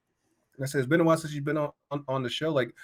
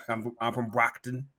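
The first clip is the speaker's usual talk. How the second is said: put-on Boston accent. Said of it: "Boston accent".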